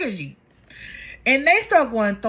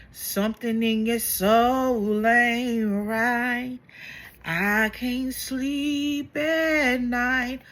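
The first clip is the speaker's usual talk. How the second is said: slow psychic voice; much slower than usual. Retold or imitated. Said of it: "he starts telling her".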